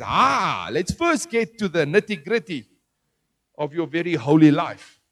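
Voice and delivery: mildly sarcastic mock reproach; a touch of sarcasm, playing at getting down to business. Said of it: "I'm being sarcastic".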